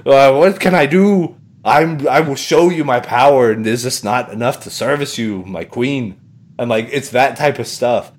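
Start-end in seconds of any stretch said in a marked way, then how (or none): 0.1-6.2 pleading villain voice. Retold or imitated. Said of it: "he's like".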